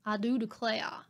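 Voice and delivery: hammed-up Southern belle phrase; quick Southern accent warm-up; mock Southern accent. Shown as a demonstration. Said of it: "No, it's wrong".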